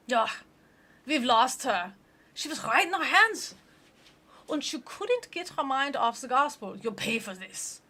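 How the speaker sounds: mock-furious devil; angry demon. Demon lamenting losing Ashley, hammed-up fury.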